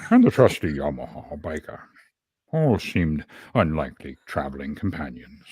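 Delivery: attempted old wizard narrator, broken by long pauses; Gandalf. Shown as a demonstration. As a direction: intone it with a hint of a solemn wizard. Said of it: "my best attempt at Gandalf".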